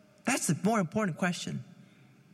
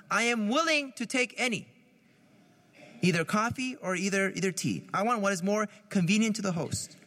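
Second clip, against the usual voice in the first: active willingness. Shown as a demonstration. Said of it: "This is spiritual indifference".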